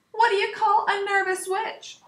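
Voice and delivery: high strange costumed voice; theatrical high riddle; spooky high voice. Acted. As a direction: ask it like a spooky party guest. Pumpkin skeleton asks riddle.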